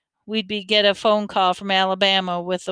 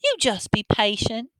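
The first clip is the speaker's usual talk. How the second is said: wicked witch; 5 semitones higher than usual. A narrator's reading. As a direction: toy with them like a wicked witch. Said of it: "just like a wicked witch".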